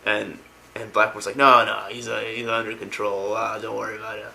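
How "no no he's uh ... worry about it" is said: imitated careless reassurance; dismissive reassurance. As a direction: wave the worry away on a level note. Retold Blackmore brushing off a worry.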